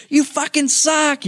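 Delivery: high, slow mock yell. Kevin heckling a wrestler, a high, drawn-out mock yell. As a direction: jeer it like a heckler, half-laughing. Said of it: "yelling at him".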